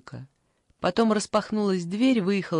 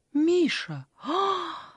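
high, sing-song cooing; 6 semitones higher, slower than usual. Acted. Granny coos to her cat, high and sing-song. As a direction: coo over the cat. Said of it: "запела бабушка".

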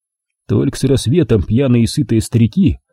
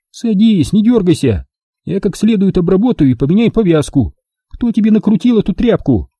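high, bossy and disgusted; Milka, squeamish; 8 semitones higher than usual. A narrator's reading. Milka dressing his wound, high and squeamishly bossy. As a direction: order him to sit, wrinkling your nose at the rag. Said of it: "брезгливо спросила она".

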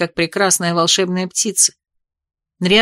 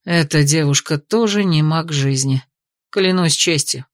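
relieved sigh; 3 semitones lower than usual. Acted. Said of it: "выдохнул мужчина, с облегчением".

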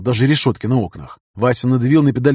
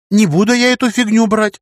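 high, louder flat refusal; indignant refusal; 10 semitones higher, 4 dB louder than usual. A narrator's reading. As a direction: push it away, indignant. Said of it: "возразила девушка".

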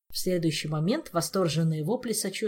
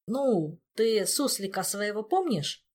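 uncertain, halting question; hesitant Jacques; 4 semitones higher, slower than usual. Acted. Jacques breaking news to Olga, hesitant and unsure. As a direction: squeeze it out reluctantly. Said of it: "выдавил Жак, неуверенно".

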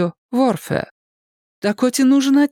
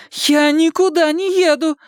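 higher-pitched stubborn protest; defiant refusal; 6 semitones higher than usual. A narrator's reading. Daughter refuses to go with her father, defiant. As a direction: refuse indignantly.

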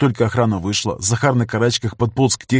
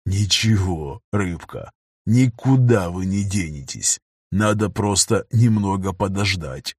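smug gloating; 3 semitones lower, slower than usual. Acted. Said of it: "довольную рожу".

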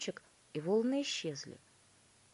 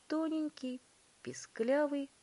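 squeaky; 8 semitones higher than usual. A narrator's reading. Narrator mimics the squeaky voice described.

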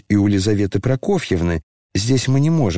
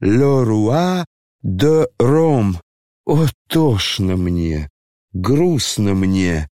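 slow melancholy; much slower than usual. Acted. Генерал бредит в тоске.

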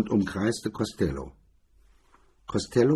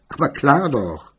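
laughing; 6 semitones higher, 6 dB louder than usual. A narrator's reading. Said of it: "MacDonald lachte und sagte".

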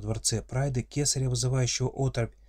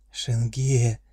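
joyful cry; 5 dB louder than usual. Acted. Heroine greets orc father.

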